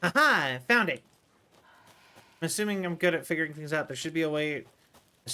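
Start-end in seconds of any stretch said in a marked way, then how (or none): 0.0-1.0 aha. Real, not acted. Finds the last code.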